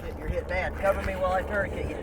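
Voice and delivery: urgent shout. Pretend. Urgent battlefield first aid.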